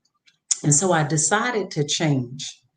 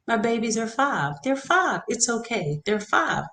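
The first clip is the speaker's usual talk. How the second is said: soft, higher self-soothing murmur; calm yourself down under your breath; quiet reminder to herself that the kids are little; talking to myself; 5 semitones higher, 5 dB quieter than usual. Retold or imitated. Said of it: "I'm talking to myself".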